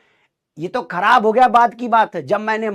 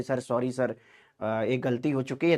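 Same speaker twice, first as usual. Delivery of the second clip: softer, meek plea to the principal; folded-hands apology; 6 semitones lower, 9 dB quieter than usual. Retold or imitated. Boy softly begs the principal after hurting Suraj, meek. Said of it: "मैंने ऐसे हाथ वाथ जोड़े".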